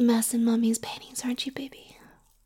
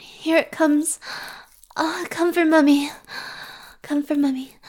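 eager urging; 3 semitones higher than usual. Acted. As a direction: urge them on, excited. Urging at the climax.

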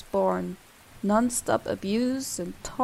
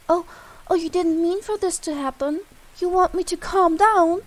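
mocking; 6 semitones higher, 4 dB louder than usual. Mocking the victim's pleas.

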